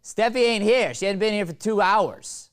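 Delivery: loud high call through rooms; from another room. Shown as a demonstration. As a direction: shout it from the kitchen. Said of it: "I want you yelling from the other room".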